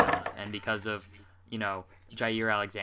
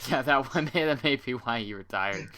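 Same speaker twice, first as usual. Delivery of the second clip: laughing; 2 semitones higher than usual. Real, not acted. Laughing at a botched snap.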